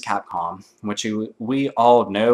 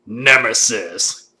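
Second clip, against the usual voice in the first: slow, drawn-out reveal; dramatic reveal; 4 semitones lower, much slower than usual. Pretend. Vlogger revealing the answer after a countdown, slow and dramatic. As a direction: unveil the name slowly.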